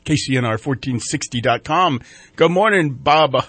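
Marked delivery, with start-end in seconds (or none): 2.4-2.9 louder hammed-up Irish brogue; bad Irish accent. Shown as a demonstration. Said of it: "There it is. My worst". 2.9-3.4 loud hammy Irish brogue; bad Irish accent. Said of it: "There it is. My worst".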